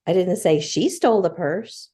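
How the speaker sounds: stole stressed with a rise. Shown as a demonstration. Wife demoing emphasis, stress on stole. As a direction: lean on stole. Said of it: "because of the emphasis that was on it".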